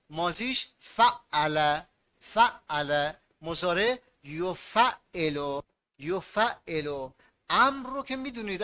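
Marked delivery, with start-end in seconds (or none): 0.1-7.1 drawn-out slow chant of یفعل; slow recitation. Shown as a demonstration. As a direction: spell the pattern out slowly for pupils. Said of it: "teacher chants the pattern". (شمرده و آهسته)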